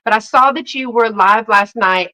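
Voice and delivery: ordinary talk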